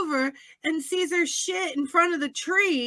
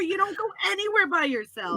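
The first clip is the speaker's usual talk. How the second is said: higher, fast mock scolding; retold screaming; 6 semitones higher, faster than usual. Viewer telling off a character on TV, mock yelling. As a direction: scold the screen in exasperation. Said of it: "screaming at the T V".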